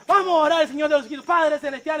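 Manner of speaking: quoting his coworker's prayer loud and fast. Retold or imitated. Coworker praying aloud on the scaffold, loud fast prayer. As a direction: pray out loud and quickly, full voice.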